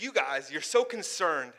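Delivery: a hint of a hero's rallying speech; reciting a movie speech. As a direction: quote the rousing movie line with weight. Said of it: "and he says".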